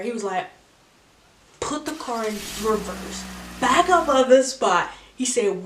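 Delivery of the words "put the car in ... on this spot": uncle orders the car back, rising to a loud command; retold command, louder at the end. Uncle in the car orders the car backed up loudly.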